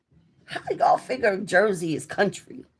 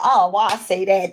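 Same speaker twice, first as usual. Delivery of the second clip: retold exasperation; 5 dB louder than usual. Retold regret at having spoken.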